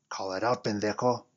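loud urgent yell. Acted. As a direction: bark the order. Coworker yelling at Joey.

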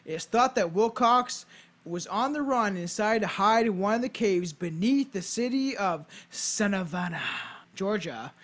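storyteller read with punched key words; measured, emphatic read-aloud; scripted narration. Acted. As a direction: present it like a podcast history script. Reads a scripted ghost tale.

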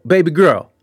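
mock come-on, each call pushed harder; pestering catcall. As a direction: imitate a persistent flirt calling out on a loop. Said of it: "he'll just stand there and just be like".

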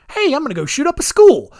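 sarcastically chipper and impulsive; mock casual impulse. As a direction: toss it out like a sudden silly whim. Mocks idea of impulsive gunman.

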